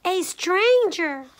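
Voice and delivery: high, slow, loud cub squeal; little bear crying out; Little Honey. A narrator's reading. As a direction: stretch out the shocked squeal. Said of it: "squealed Little Honey".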